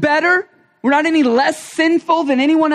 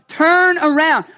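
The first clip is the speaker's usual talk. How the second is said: urgent loud plea; 4 semitones higher, 4 dB louder, slower than usual. Shown as a demonstration. Preacher pleading with sinners, urgent loud call. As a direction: turn around called out loud and urgent. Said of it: "this word repent has become like the angry preacher's".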